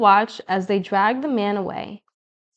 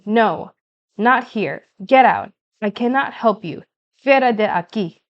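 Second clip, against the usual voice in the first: shouting; 4 dB louder than usual. Acted. Store owner throws man out.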